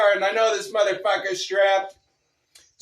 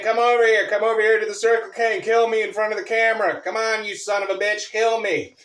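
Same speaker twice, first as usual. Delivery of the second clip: taunting; 4 semitones higher than usual. Retold or imitated. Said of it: "I'm taunting George".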